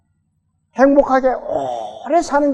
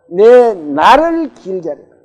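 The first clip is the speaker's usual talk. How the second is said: slow, louder shared reading of the verse's end; reading scripture aloud; 6 dB louder, slower than usual. Real, not acted. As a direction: finish the verse loud and slow with the church. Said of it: "뭐라고요?".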